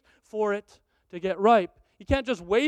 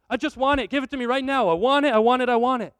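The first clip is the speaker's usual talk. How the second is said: demanding believer; 3 semitones higher, 6 dB louder, faster than usual. Acted. Believer begging God.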